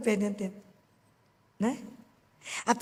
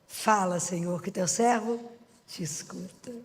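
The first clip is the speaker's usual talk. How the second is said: reverent reply; 3 semitones lower, slower than usual. Acted. Samuel's humble answer to God.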